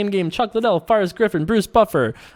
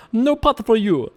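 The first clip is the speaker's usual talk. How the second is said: slow, higher barking refusal; soup Nazi; 5 semitones higher than usual. Acted. Streamer mocking opponent as the Soup Nazi, gruff refusal. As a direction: deny them like a stern soup seller. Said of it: "soup Nazi thing".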